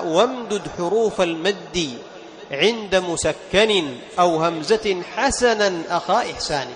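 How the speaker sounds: slow, measured poetry reading; poem recitation. Acted. Teacher reads the tajweed poem aloud slowly. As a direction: recite the verse slowly and evenly.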